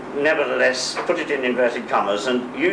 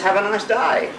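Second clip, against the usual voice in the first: Australian accent; 8 semitones higher than usual. Shown as a demonstration. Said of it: "I think the answer is".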